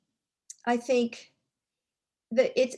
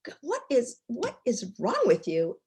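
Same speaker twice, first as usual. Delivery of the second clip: mildly exasperated, stumbling into the question; agitated frustration; 4 semitones higher than usual. Retold or imitated. Boss retelling her outburst at her team, frustrated. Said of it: "even more agitated and frustrated".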